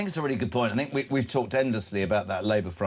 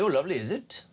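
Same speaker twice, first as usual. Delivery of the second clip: put-on a light Welsh accent on a cheery greeting; a quick, lightly voiced Welsh lilt; 4 semitones higher, faster than usual. Host greeting a caller from Swansea in a light Welsh accent. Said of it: "That's my Welsh accent this morning".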